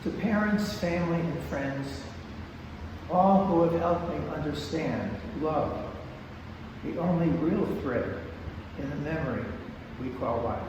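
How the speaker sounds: measured verse, pausing between phrases; poetry reading. Acted. Poet reading a personal dedication to parents and friends, measured poetry reading. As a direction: read it line by line, letting the last words settle. Reads a second short dedication poem.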